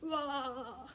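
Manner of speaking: playful gentle bellow; walrus bellow. Shown as a demonstration. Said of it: "Can you make a big bellow sound?".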